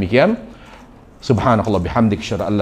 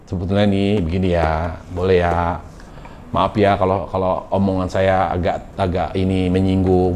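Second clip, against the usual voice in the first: coaxing wife; 5 semitones lower than usual. Retold or imitated. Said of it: "Mau manja".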